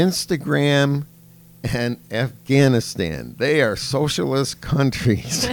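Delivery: mock child listing countries earnestly; imitating a little girl. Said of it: "She goes".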